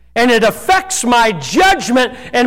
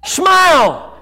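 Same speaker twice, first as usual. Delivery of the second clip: shouted command; 4 semitones higher than usual. Real, not acted. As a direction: bark out a sudden smile order. Preacher urging congregation to smile.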